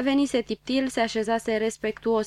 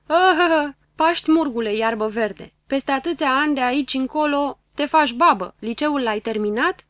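put-on teasing older woman; 4 semitones higher, 6 dB louder than usual. Older woman teasing the young girl.

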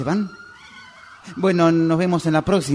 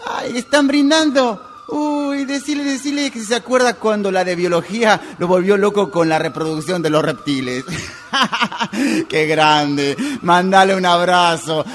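excited; 4 semitones higher than usual. Acted. Excited chat about friend becoming father.

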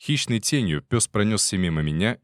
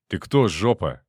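angry bark; 3 dB louder than usual. Acted. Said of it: "сердито рявкнул".

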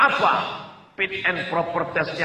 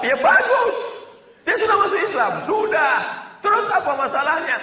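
laughing high reply; 13 semitones higher than usual. Retold or imitated. Preacher answers mother cheerfully.

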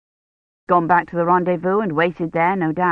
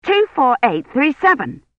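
a touch of exasperation, pitched up; exasperated; 7 semitones higher than usual. A narrator's reading. Woman on phone losing patience, mildly exasperated. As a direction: repeat it, fed up. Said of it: "she said, exasperated".

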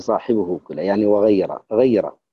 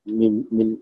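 ordinary talk

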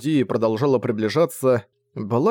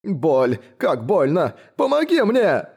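moaning in pain, the last plea leaping much higher; plaintive wailing; 6 semitones higher, slower than usual. A narrator's reading. Injured baron wailing at D to help, much higher on the plea. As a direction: wail for help like a spoilt noble. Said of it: "издавать жалобные вопли".

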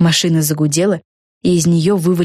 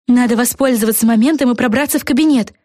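mild call; 6 semitones higher than usual. Acted. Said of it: "прокричала Флофанора".

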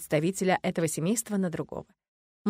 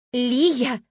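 suppressing a laugh; 5 semitones higher, 6 dB louder than usual. Acted. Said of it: "воскликнула с трудом, сдерживая смех".

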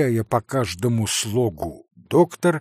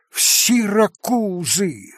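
higher, slow stunned exclaim; bewildered cry; 7 semitones higher, slower than usual. A narrator's reading. Captain hearing of Syracuse, bewildered cry. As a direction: cry out not understanding. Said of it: "вскричал штабс-капитан".

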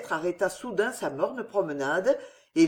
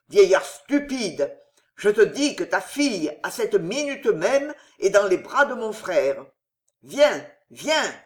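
louder, slowed furious roar; 3 dB louder than usual. Acted. Henri roaring as he drags the father away. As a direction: roar it, dragging him along. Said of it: "rugit-il".

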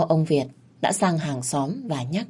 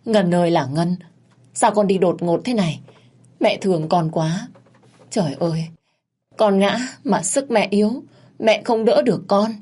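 hammed-up lament, rising higher toward the end; fake wailing; 4 semitones higher than usual. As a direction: crocodile tears, wailing for show, pitch climbing. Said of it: "gào lên thảm thiết". (giả vờ khóc than thảm thiết, giọng cao dần)

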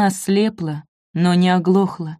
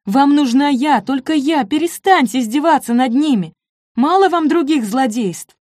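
desperate plea; 6 semitones higher than usual. A narrator's reading. Nina pleads with Zwerger.

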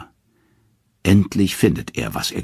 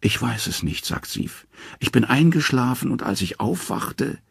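close to tears; 7 semitones higher than usual. A narrator's reading. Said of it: "sie bricht in Tränen aus".

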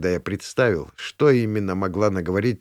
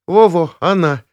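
loud confirmation; 8 semitones higher, 8 dB louder than usual. A narrator's reading. Zoya eagerly confirming.

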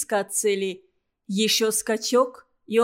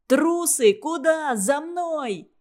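angry shout; 5 semitones higher, slower than usual. Acted. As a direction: bellow at the fleeing cowards. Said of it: "заорал часовой". (гневный крик)

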